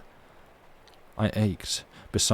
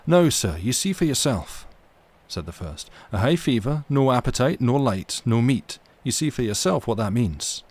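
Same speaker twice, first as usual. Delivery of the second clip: higher, louder ship's mate pleading; Riach's voice; 3 semitones higher, 3 dB louder than usual. Acted. Mate urging the captain about the boy, raised and pressing. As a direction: lift it into the mate's voice. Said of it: "Oops, no, that's the wrong person".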